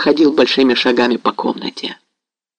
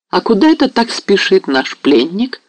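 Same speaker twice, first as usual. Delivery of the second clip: with a smile; 7 semitones higher than usual. A narrator's reading. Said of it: "повторила она с улыбкой".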